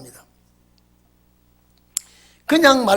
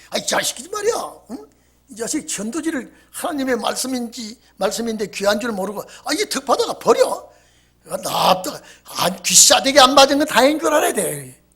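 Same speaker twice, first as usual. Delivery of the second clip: indignant rant; 2 semitones higher than usual. Retold or imitated. Deacon angrily retelling the incident.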